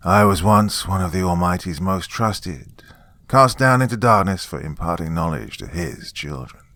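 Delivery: loud, ringing angelic voice; clarion voice. Acted. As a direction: proclaim it like an angel. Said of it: "his clarion voice".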